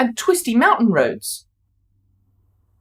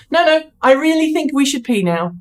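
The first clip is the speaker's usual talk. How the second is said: bladder insisting; 5 semitones higher than usual. Pretend. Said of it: "says my bladder".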